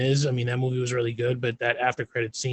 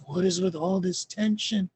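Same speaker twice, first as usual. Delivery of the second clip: higher, puzzled dad voice; Red Guardian impression; 5 semitones higher than usual. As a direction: play him clueless, hurt that they're upset. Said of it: "he was like".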